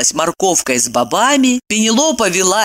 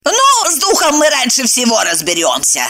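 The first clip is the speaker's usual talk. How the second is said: higher, sing-song retort; retorting housekeeper; 6 semitones higher than usual. Acted. Housekeeper answering the departing master, sing-song. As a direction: call after him cheekily. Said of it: "сообщила ему вслед".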